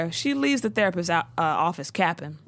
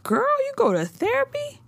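far higher, incredulous squeal; scandalised disbelief at therapy; mock shocked friend. Voicing Maya's shocked reaction.

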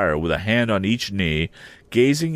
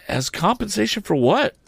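demanding; 12 semitones higher than usual. A narrator's reading. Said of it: "Joe demanded".

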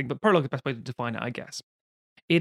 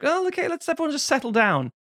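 flustered husband; 11 semitones higher than usual. Retold or imitated. Husband calms a quarrel.

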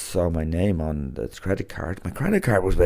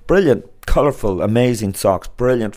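upbeat ad read; 3 semitones higher, 5 dB louder than usual. Acted. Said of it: "sock sponsor ad read".

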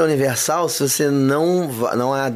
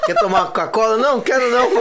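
mock dialogue; 9 semitones higher, faster than usual. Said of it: "acting out an offer and a refusal".

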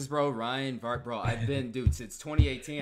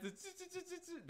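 soft mouth-made "ch-ch-ch" crackle; imitated lightning effect; 12 semitones higher, 23 dB quieter, slower than usual. Podcast host standing in for missing lightning effects, imitated crackle. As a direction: fake a lightning sound effect under your breath. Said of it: "There's your lightning".

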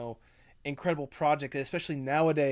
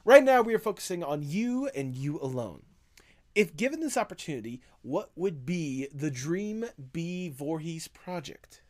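grand, slow mogul pitch; big shot producer; 2 semitones higher, slower than usual. Pretend. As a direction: announce the offer grandly. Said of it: "Big Shot Mister Moneybags".

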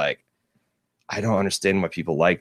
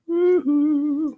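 high woohoo. Pretend. Cheering as tiger.

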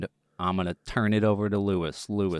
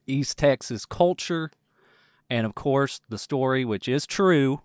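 put-on Texas accent. Podcast host opening the show in a put-on Texas accent. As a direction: lean gently into a Texas accent. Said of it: "am I gonna keep this accent going".

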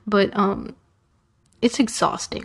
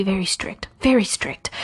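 whispered emphasis. Real, not acted. Describing the strict art coach to viewers in a whisper. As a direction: hush it like the coach might overhear.

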